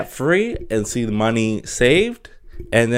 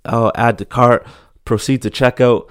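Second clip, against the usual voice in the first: louder eager click-through voice; excited to add to cart, played up; mock thrill of hitting checkout; 5 dB louder than usual. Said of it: "And you always go".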